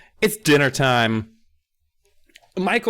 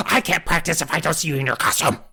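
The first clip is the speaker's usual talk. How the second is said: higher, fast exasperated rant; mock freak-out; 3 semitones higher, faster than usual. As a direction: rush it out in an acted fit. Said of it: "she literally freaks out at him".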